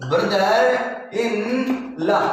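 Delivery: brother, in, law each set apart with a pause; slow broken-up teacher demo; word by word. Shown as a demonstration. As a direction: spell out brother in law in three separate beats.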